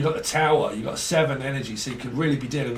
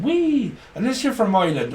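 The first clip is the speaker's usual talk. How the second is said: high squealed "Wee!"; squeaky wee; 8 semitones higher, 4 dB louder than usual. Retold or imitated. Spirits calling out, squealing "Wee!". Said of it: "They keep saying".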